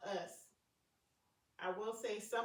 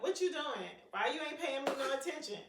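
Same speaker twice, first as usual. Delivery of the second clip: put-on higher, louder whiny child; mock needy daughter whining; needy kid; 7 semitones higher, 7 dB louder than usual. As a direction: demand attention like a clingy teenager. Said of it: "be like".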